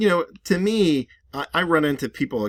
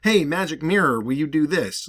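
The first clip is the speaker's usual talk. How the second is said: casual address; 4 semitones higher, 4 dB louder than usual. Retold or imitated. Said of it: "She wasn't just talking to".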